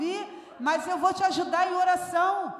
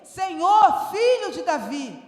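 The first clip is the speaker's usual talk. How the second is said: the louder peak, then dropping off; crying out again; 2 semitones higher, 7 dB louder, slower than usual. Acted. The woman calling Jesus a second time, louder at first. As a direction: push the second call harder, then let it fall. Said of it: "ela começou a gritar".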